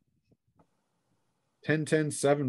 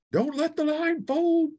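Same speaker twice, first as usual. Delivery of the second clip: higher, slow, steady command to the line; commander's order; slower than usual. Acted. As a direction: hold your men together. Sergeant orders the spearmen.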